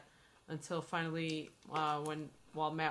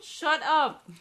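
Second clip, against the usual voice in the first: laughing; 11 semitones higher, 13 dB louder than usual. Real, not acted. Laughing teasing back at friend.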